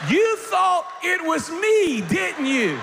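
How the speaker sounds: high, loud, slow mocking cackle; cackling mocking woman. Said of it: "she cackles out laughing".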